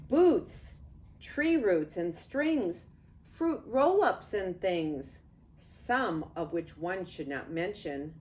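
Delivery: lively storybook read-aloud; sing-song picture book narration; reading to children. A narrator's reading. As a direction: read it like bedtime rhyme to kids.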